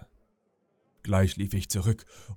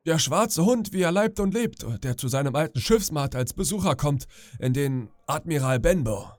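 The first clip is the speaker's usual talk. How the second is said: higher, cheery pirate bluster; jovial old pirate; 5 semitones higher than usual. Acted. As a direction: play the glad old shipmate. Black Dog boasting to old shipmate. (fröhlicher alter Pirat, höher)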